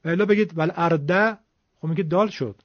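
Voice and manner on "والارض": والارض with a heavy thick dal; thick dal zad. Shown as a demonstration. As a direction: say الارض with a dark dal sound. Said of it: "دال درشت بگید".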